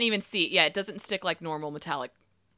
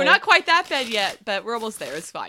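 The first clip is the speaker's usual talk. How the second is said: hoarse; 4 semitones higher, 6 dB louder than usual. Real, not acted. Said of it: "You're losing your voice".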